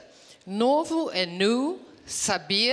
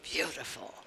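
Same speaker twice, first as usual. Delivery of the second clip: soft model; 7 semitones lower, 11 dB quieter than usual. Shown as a demonstration. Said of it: "Say beautiful".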